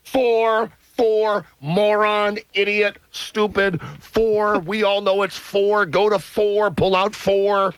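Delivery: high, mocking jeers at a slow customer; impatient guys yelling. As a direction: taunt him like the impatient crowd in line. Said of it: "guys are going".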